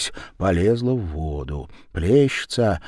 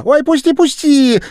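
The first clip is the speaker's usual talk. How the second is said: очень высоко и громко; завизжать от боли; визгливый крик; 10 dB louder than usual. A narrator's reading. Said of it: "Верява закричала". (Верява визжит, которую держат за ухо)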